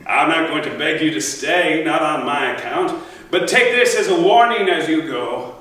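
a haughty threat that swells as it goes; scornful king dismissing a warrior. Acted. Agamemnon answers in scorn.

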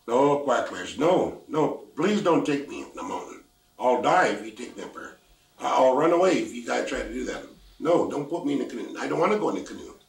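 put-on loud, desperate pleading of a scared girl; pleading child. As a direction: beg loudly, terrified of the mountain. Girl begs not to go.

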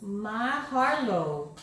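Mahalo drawn out slowly, stress on HA. Shown as a demonstration. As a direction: say Mahalo slowly, each syllable clear. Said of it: "Can we all say it for you?".

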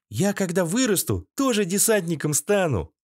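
put-on high, proud little boy; a kid bragging up high; child voice. A boy boasts about the future.

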